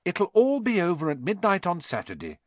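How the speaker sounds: lightly voiced attempt to calm a friend down; reassuring. A narrator's reading. Hermione tries to calm Ron down, reassuring. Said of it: "tried to calm Ron down".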